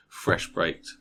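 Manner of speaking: "baked" said with an extra r, as "braked"; slip of the tongue. Real, not acted. Describing a disappointing loaf, "baked" mispronounced as "braked". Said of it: "A baked".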